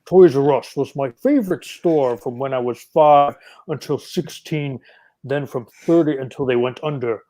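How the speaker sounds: lightly voiced cartoon villain Destro, a hint of an accent. Shown as a demonstration. Reading the comment in Destro's voice on request, lightly voiced villain. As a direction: read it like a mild take on the Sunbow Destro. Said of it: "you gotta read it in Destro's voice".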